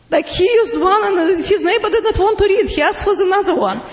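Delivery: talking through laughter; laughing. Real, not acted. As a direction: laugh while you tell it. Laughs while retelling the story.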